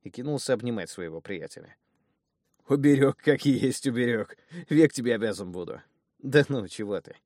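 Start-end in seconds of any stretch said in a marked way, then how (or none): 2.7-5.8 louder, teary thanks; tearful gratitude. Acted. Grateful thug thanks his brother, tearful and louder. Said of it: "аж слезу пустил". 6.2-7.2 a touch of bashful brushing off; embarrassed. Acted. Embarrassed brother brushes off the thanks, a bit bashful. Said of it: "откровенно засмущался и зарделся".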